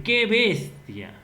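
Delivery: loud, slow mock exclamation; exclaimed. Shown as a demonstration. Classmate blurting out in class, loud exclamation. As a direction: call it out like a startled classmate.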